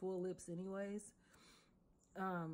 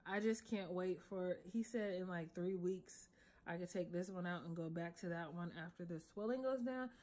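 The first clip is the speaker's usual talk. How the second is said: speech thickened by a swollen lip. Real, not acted. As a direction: talk around a fresh lip piercing. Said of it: "it's swollen because I'm talking so funny".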